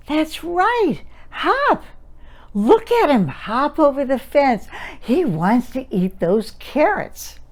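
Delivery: put-on delight the toddler with a swooping voice; sing-songy baby talk. Shown as a demonstration. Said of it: "Did you notice the sing-songy expression?".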